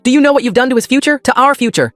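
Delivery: high, loud furious scream. A narrator's reading. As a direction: keep screaming in outrage. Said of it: "my mom screamed".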